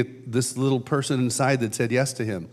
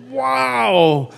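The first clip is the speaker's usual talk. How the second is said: high, louder wondering wow; amazed wow; 11 semitones higher, 7 dB louder than usual. Retold or imitated. Mimicking Jesus' face as he beams at people, amazed. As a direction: burst out in delighted amazement.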